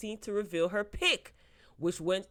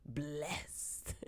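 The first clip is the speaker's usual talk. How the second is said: whispered; 3 semitones lower, 11 dB quieter than usual. Pretend. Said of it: "I read it in that voice".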